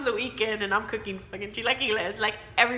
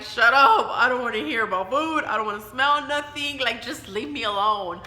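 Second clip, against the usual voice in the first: louder, fed-up nauseous snap; irritated snap; 6 dB louder than usual. Retold or imitated. Sick daughter snapping at teasing mom, annoyed and louder. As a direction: push her mom away, annoyed. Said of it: "And I was like".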